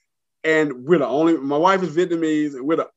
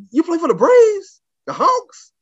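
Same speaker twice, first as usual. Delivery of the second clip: bus guy calling out; 13 semitones higher, 4 dB louder, slower than usual. Retold or imitated. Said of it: "another guy said".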